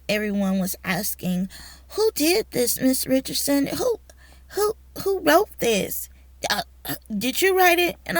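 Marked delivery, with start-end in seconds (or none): 1.9-7.9 high-pitched, disbelieving questions; acted-out amazement, voice lifted high; incredulous questioning. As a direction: imitate astonished colleagues asking who did it. Acted astonished colleagues questioning her.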